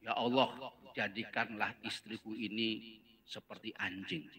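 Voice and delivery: low, soft prayer to God; husband praying quietly against his wife; acted curse prayer. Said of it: "Didoakan langsung". (doa suami yang pelan dan rendah)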